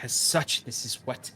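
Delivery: an intense secret finally revealed; the seer whispering what she waited for; frantic, dropping to a whisper. Acted. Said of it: "and she's very frantic".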